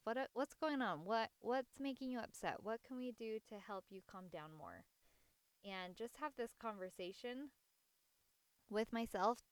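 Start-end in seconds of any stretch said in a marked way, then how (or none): 0.0-4.8 gentle self-talk. Retold or imitated. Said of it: "talking to myself".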